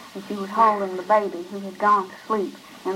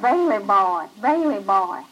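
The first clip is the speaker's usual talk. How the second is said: heartbroken calling; 3 dB louder than usual. A narrator's reading. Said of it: "as if her heart would break".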